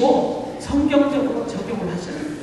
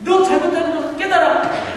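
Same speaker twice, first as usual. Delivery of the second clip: higher-pitched, mildly acted scolding; strong rebuke; 3 semitones higher than usual. Preacher voicing the Spirit reproving people for wrongdoing, firm rebuke. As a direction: press the rebuke firmly, as a preacher illustrating it. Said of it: "라고 강하게 비판하는".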